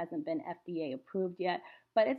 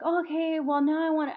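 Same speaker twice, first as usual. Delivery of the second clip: mocking the haters; 9 semitones higher, 9 dB louder than usual. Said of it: "And they're like".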